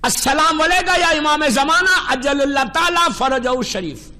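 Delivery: measured devotional recitation, falling at the end; reciting the greeting. Shown as a demonstration. Preacher teaching the congregation the bedtime salaam, recited devoutly. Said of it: "رکھ کے دو جملے بولو".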